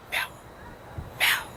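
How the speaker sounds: short, clipped broken meows; two stunted little mews; strange cat meow. Retold or imitated. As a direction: meow like a cat that can't quite talk. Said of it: "But that cat would go".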